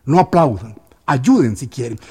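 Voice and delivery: loud commanding call over the crowd; shouting for silence. Retold or imitated. Snake charmer shouting the crowd into silence, loud. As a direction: shout it out to stop the applause. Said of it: "que gritó".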